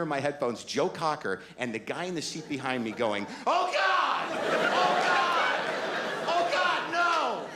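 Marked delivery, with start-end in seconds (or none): 3.4-7.4 panicked high yells, much higher; freaking out. Retold or imitated. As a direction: scream to God as the plane drops. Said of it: "He's freaking out".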